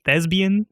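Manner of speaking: "thespian" with a B sound, imitating the speaker; mimicking a mispronunciation. Co-host pointing out the slip, "thespian" said with a B. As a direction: echo "thespian" as thez-bee-an, with B for P. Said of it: "like, with a B".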